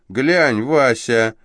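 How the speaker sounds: loud, high exclamation; girl calls to Vasya, loud, high and gleeful; exclaiming girl. Acted. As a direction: point him out with glee. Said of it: "воскликнула вдруг девица".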